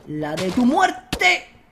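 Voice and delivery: drawn-out very slow threat; slow menace. Real, not acted. Gamer threatening an enemy player, slow menacing line. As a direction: stretch out the threat.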